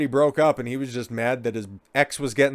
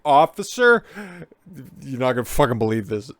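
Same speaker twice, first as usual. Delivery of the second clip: put-on drunk voice; 5 dB louder than usual. Playing drunk confiding to cop.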